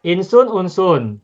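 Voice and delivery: "Insun" then "unsun", slow, vowels set apart; slow contrast. Shown as a demonstration. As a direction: spell out the vowel difference slowly. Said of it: "beda harokat".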